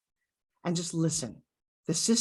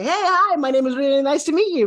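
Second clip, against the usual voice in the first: rushed mumbled intro; 6 semitones higher, 5 dB louder than usual. Shown as a demonstration. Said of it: "have you ever met somebody and they say".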